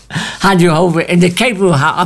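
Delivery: trying not to laugh, losing it on the last word; stifle a laugh and break off mid-word; breaking into laughter. Real, not acted. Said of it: "I would say that without laughing".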